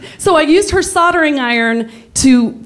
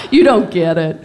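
laughing; 5 semitones lower than usual. Real, not acted. Laughing aside.

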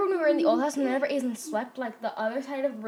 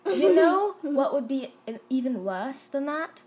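put-on slow, deliberate British accent; slower than usual. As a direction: enunciate in a British accent, dropping the R's. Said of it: "talking in an accent on purpose".

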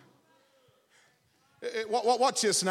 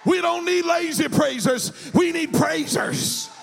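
full-force preaching; 3 semitones higher than usual. Acted. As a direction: rouse the church to praise. Preacher rousing the congregation to praise.

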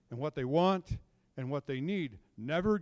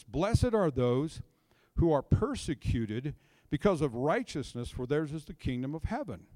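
scripture reading. Acted. Reading Matthew aloud.

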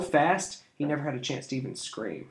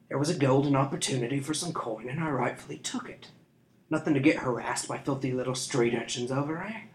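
smug, drawling scoundrel; sly thief. A narrator's reading. Thief mocking the street urchins, smug. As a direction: taunt the children lazily.

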